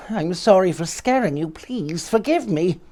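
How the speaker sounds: high, timid apology; shy squeaky voice. Acted. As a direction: squeak it out shyly. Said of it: "shy, squeaky voice".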